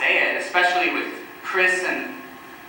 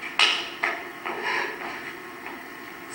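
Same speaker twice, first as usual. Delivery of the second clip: quiet, voiceless chuckling; low-volume, breath-only laugh; dark laugh; 10 dB quieter than usual. Acted. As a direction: laugh softly to yourself at a morbid thought. Laughs after gruesome fantasy.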